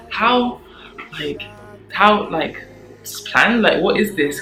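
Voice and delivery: high, loud retold puzzlement; baffled. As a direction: sound thrown by how planned it seems. Confused by the planned gift.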